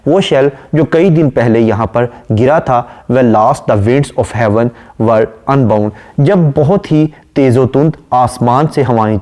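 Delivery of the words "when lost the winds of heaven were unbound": slow, measured reading of a poem line; poem recitation. Acted. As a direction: recite it slowly and deliberately. (धीमी, ठहरी हुई कविता-पाठ की आवाज़)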